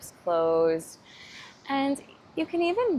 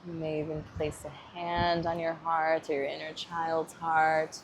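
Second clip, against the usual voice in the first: calm guided-meditation voice. Acted. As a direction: ease the listener inward, gently.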